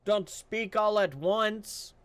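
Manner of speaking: high, slow sarcastic line. Acted. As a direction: drawl it sarcastically. GM sarcastic as guard.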